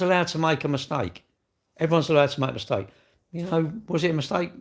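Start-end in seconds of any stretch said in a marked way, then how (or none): 1.8-2.9 fast, brushed-off repeat of the point; quicker repeat. Shown as a demonstration. Streamer repeating the point fast to the chatter. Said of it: "repeats the line faster".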